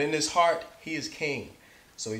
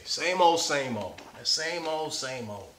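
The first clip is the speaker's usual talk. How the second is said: put-on singsong same old. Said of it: "That's what old people say".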